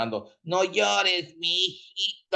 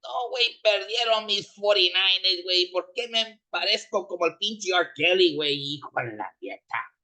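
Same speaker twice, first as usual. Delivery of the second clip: a fan whose team just lost, swearing at everyone; furious Mexican fan. Acted. A fan whose forty-niners lost, yelling insults in anger. Fan still raging about the loss.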